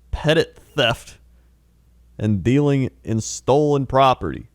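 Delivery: mock news anchor read; newscaster voice. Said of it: "It's not a newscaster voice".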